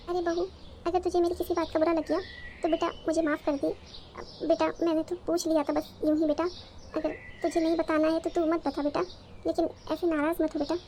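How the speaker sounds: a sweet, concerned mother checking on her son; doting mother-in-law. Acted. S0 voices mother-in-law again. (हल्के से बदली आवाज़ में चिंतित सास)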